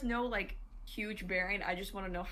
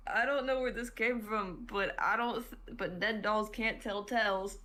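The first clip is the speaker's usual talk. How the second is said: gruff tinny action figure; 4 dB louder than usual. Acted. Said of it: "just say it wrong".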